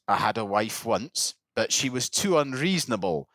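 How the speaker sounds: lightly imitated Scottish islander; retelling in a Scottish voice; Scottish accent. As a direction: put on a local Islay accent. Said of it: "You don't have to do the accent".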